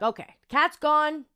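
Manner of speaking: drawn-out high "okay, cat's gone"; high, slow mock relief. Telling herself the cat is gone, high and slow. Stray cat keeps following her.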